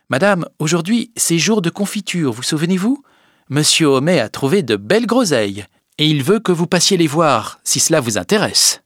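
high, singsong servant voice; maid Félicité. A narrator's reading. Félicité reminding madame of jam day, high maid's voice. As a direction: chirp the message up high to your mistress.

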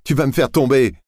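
high, playful cry of protest; laughing protest. A narrator's reading. Camille teasing Laurent in the boat, laughing protest. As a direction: laugh as you push him off. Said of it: "a dit Camille en riant".

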